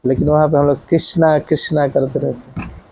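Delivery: कृष्णा said with a long final a; wrong pronunciation. Shown as a demonstration. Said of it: "कृष्ण है, अण है". (कृष्णा का गलत उच्चारण)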